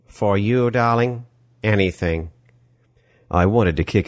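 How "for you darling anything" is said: put-on smarmy European movie-villain accent; oily villain accent, gushing welcome; Die Hard villain accent. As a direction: greet them in an action-film villain's foreign accent. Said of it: "accent sounding like the villain of a Die Hard film".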